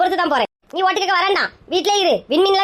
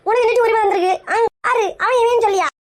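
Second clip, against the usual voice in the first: jealous outburst; 5 semitones higher than usual. Acted. Jealous sister confronts rival.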